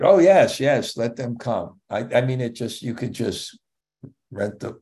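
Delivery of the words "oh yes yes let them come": retelling a friend's delighted yes with a bright lift; excited. Retold or imitated. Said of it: "He was very excited".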